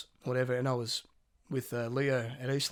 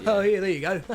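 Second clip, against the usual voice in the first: loud, high mock-jolly call; imitated catchphrase; 5 semitones higher, 7 dB louder than usual. Mimicking the odd bus stranger's sayings, loud and high. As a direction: call it out high, then cackle. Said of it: "where he, he'd say a kind of".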